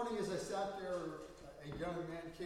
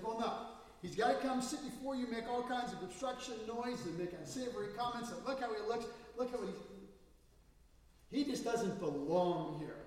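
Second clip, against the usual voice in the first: indignant complaint; 4 semitones higher, 4 dB louder than usual. Retold or imitated. Church member complains about man.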